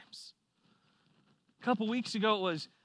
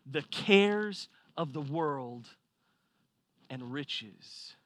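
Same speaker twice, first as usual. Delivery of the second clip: solemn scripture quote; 4 semitones lower, much slower than usual. Shown as a demonstration. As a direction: read "The cares of the world" slowly, as holy text. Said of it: "Scripture says".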